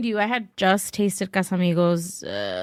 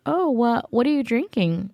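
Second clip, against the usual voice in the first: retold friendly interest; 4 semitones higher than usual. Retold friendly star starting small talk.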